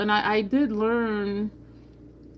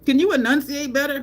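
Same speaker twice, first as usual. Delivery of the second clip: nagging mom; 7 semitones higher, 5 dB louder than usual. Retold or imitated. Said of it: "she would be like".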